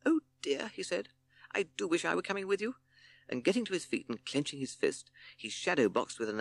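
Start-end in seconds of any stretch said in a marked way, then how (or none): 0.1-0.7 high toad voice, badly faked regret; feigned disappointment. A narrator's reading. Toad pretending to regret being left, mock disappointed. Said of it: "tried to look disappointed". 1.5-2.8 high toad voice, badly faked regret; feigned disappointment. A narrator's reading. Toad pretending to regret being left, mock disappointed. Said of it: "tried to look disappointed".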